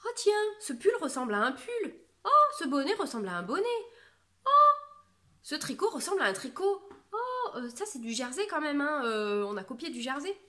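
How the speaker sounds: high, loud, laughing sneer; laughing mock voice of online haters; mocking jealous critics. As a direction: parody the complainers with exaggerated gasps. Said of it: "on parlait avec les copines de".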